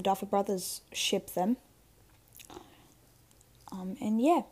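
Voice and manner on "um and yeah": whispering. Real, not acted. Trailing off in a whisper.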